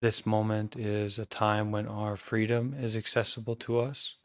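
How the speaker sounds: calm, measured meditation guidance with long pauses; guided meditation. Acted. Teacher guiding an online group to notice their breathing, calm meditation voice. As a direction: guide the group gently into awareness, leaving silences between phrases.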